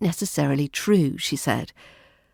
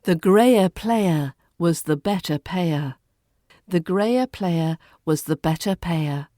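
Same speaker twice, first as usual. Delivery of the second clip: RP practice line. Shown as a demonstration. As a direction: say it slowly in posh RP, no R. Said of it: "Let's practice this line".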